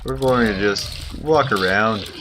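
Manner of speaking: hammed-up stereotypical Canadian accent; Bob and Doug Canadian. Streamer playing Bob and Doug over his game, Canadian accent. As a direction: play a laid-back Canuck with "eh" tags. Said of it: "I'm talking like Bob and Doug now".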